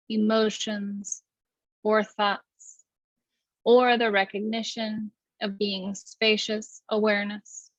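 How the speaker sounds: even, unhurried meditation guidance; guided meditation. Acted. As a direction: lead the breath calmly, with long pauses.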